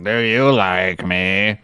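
slow, low robot imitation; a hint of slow machine speech; lightly voiced robot. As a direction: imitate a stilted talking robot, drawn out and low. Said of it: "when the Russian guy's talking to him".

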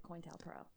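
COINTELPRO as KOYN-tel-pro, starting like "coin"; alternative pronunciation. Shown as a demonstration. Host defending the disputed version, COINTELPRO as KOYN-tel-pro. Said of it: "heard a lot of people actually pronounce it".

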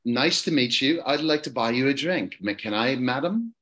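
courteous British gent offering a drink; put-on London accent, politely chatting up a lady; lightly voiced British suitor. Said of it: "I'll do the London accent".

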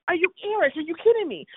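retold outrage at Eric; incredulous. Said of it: "I'm like".

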